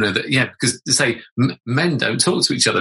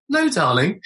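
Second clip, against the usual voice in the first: highest voice; 5 semitones higher than usual. Retold or imitated. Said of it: "said in my highest voice I could".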